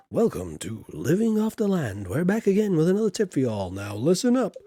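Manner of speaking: lightly put-on show presenter, lively swooping tune; TV farm tipster. Farming show host welcoming viewers back with a tip, lightly hammed-up.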